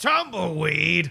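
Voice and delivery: rough, creaky, rasping voice. Calling out to a character named Tumbleweed in Hersha's voice. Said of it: "in Hersha's voice".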